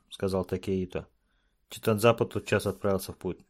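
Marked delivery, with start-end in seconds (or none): none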